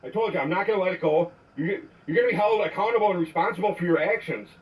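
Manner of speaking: angry voicemail rant; furious message to an officer; leaving a voicemail. Real, not acted.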